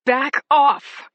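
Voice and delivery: loud, high command; shouting. A narrator's reading. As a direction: yell it to drive them back. Warding off attackers.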